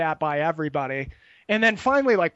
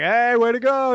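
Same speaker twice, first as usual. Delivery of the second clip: mock cheer from friends; 5 semitones higher, 6 dB louder than usual.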